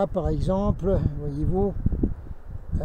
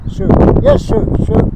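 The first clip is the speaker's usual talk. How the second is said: eager soldier; 12 dB louder than usual. Retold or imitated. Retold Civil War general dialogue.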